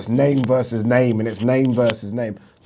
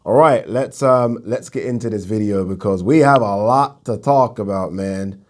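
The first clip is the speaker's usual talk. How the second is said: put-on American accent. Host kicking off his boxing video, in an American accent. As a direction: slip into a light American accent. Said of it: "I just did an American accent now".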